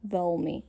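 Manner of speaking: veľmi with a hard, dark L; regular hard L. Shown as a demonstration. Teacher giving a made-up example, veľmi with hard L. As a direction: say veľmi with an American-style dull L. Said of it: "with a regular L".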